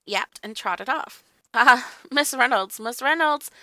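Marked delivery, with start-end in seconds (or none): 1.5-2.8 chuckling through the name; laughing. Retold or imitated. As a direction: laugh as you say it. Dan quotes Hobden, laughing.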